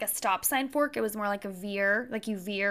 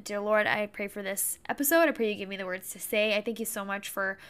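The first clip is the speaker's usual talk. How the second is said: rushed mumbled prayer. Real, not acted. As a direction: murmur a hurried prayer. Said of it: "say a quick prayer".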